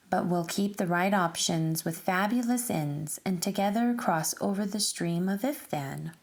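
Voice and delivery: lilting, sing-song rhyming read-aloud; reading a picture book aloud. Acted. Teacher reading a rhyming book to children, sing-song storytelling. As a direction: read the rhymes to a class of children, bouncing along.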